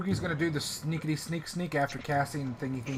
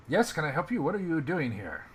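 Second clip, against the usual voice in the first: Russian slumlord; 3 dB louder than usual. Acted. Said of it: "sounded like a Russian slumlord".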